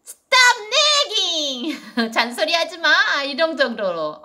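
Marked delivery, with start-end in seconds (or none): 0.1-2.1 slow mild annoyed plea. Pretend. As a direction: tell mom to stop nagging. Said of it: "이러면 되겠죠". (엄마에게 살짝 짜증내며)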